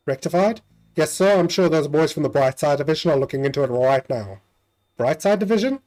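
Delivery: lightly voiced polite ghostly conductor; a hint of a prim ghost official. Ghost conductor addressing the passengers, polite and prim.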